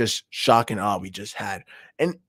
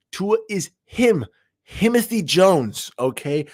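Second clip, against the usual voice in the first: hype; 7 semitones higher, slower than usual. Real, not acted. Hyping the quarterback.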